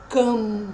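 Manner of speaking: CAM held on one nasal sound; nasal digraph. Shown as a demonstration. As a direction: draw out the nasal vowel in CAM. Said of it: "um dígrafo nasal". (CAM com som nasal alongado)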